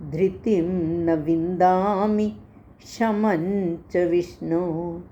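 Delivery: slow, measured Sanskrit recitation; verse recitation. Acted. Teacher reciting the full shloka for the class. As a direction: recite the whole shloka steadily.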